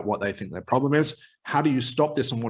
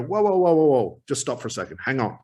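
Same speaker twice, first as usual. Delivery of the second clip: interrupting. Shown as a demonstration. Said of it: "I'd go".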